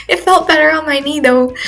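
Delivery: amused self-mocking retake; laughing repeat. Real, not acted. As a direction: laugh at yourself as you say it again. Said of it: "I feel so old saying that".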